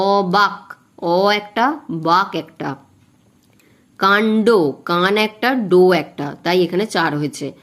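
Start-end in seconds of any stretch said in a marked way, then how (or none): 0.1-6.3 অবাক split into অ and বাক, each counted as one; অবাক, কাণ্ড pulled apart syllable by syllable. Shown as a demonstration. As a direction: break অবাক and কাণ্ড into separate beats. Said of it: "অবাকটা আমি একবারে বলবো না".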